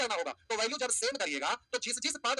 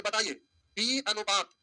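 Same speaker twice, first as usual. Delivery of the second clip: slow dictation; slower than usual. Shown as a demonstration. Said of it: "अब आपसे कहेगा कि".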